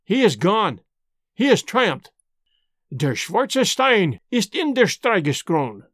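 put-on old spy taunting Hannay with fanatic pride; fanatic triumph. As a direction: savour the victory. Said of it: "he cried".

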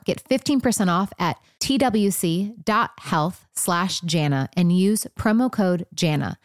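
polished testimonial ad read; scripted, measured podcast promo. Shown as a demonstration. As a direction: read the sponsor spot evenly and clearly. Host reads sponsor testimonial.

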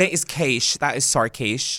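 lightly put-on Australian schoolgirl accent; playful mock Australian catchphrase; Ja'mie. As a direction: quote the show in Australian. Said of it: "I'd watch Ja'mie Private Schoolgirl".

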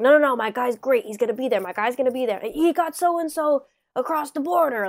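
lightly voiced New York mobster on the phone; mobster accent. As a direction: imitate a Brooklyn mobster vouching for his guy. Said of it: "I slipped into an, an accent here".

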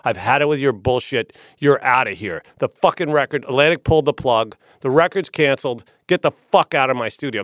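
loud, irate dismissal, imitating him; retold screaming. Studio manager kicking out the producer, retold angry yelling. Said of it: "being screamed at by the general manager".

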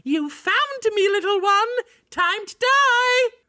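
high squeaky goblin, slow menacing end; yappy chihuahua voice. Pretend. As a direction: yap it out like a tiny goblin. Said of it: "you just go".

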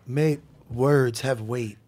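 slow, low mock Aussie-style drawl of mate, words have weight; ribbing a co-host by quoting him back slowly in his accent; imitating his accent. Imitating a co-host's accent slowly to tease him. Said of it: "in his voice, he said".

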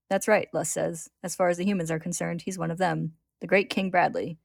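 measured read-aloud with lightly voiced dialogue; story narration. A narrator's reading. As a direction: read the tale clearly, lifting the quoted lines.

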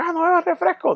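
a hint of girlfriend voice. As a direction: lightly mimic her rules. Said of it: "fue como que". (voz de ella, algo más aguda)

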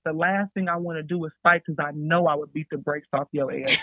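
a tough threat broken by laughter; laughing as she warns the senior. Retold or imitated. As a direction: threaten them while you can't stop giggling.

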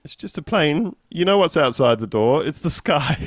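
high-pitched mock busybody; hammed-up high passenger voice; meddling passenger. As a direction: play a bystander chipping in, pitched well up.

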